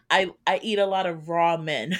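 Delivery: "raw men" said as two separate words; misheard quote. Retold or imitated. Co-host repeats what it sounded like Sue said, amused misquote. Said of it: "it sounded like Sue said".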